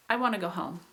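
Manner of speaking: "I wanna go home" as a neutral falling statement; unexciting, let the voice drop on "home"; plain fall that simply ends on "home"; falling contour. Shown as a demonstration. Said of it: "just kind of a general fall of the voice".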